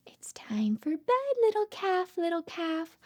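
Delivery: hushed, singsong lullaby lines; bedtime story reading. Acted. Mother reads a bedtime book to her baby, hushed and singsong. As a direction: lull the baby toward sleep.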